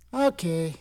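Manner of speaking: soft, low giving-up mutter; resigned. Acted. Seller gets no bids for his sister, soft resigned aside. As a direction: drop to a quick, low near-whisper.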